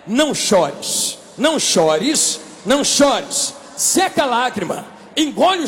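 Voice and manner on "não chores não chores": slow, low and soothing; lightly voiced Jesus soothing a weeping widow; gentle comfort. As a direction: hush her tears gently.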